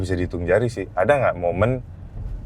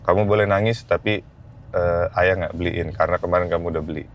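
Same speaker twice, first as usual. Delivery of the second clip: gentle father; 4 semitones lower than usual. Retold or imitated. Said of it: "aku didik ke anakku".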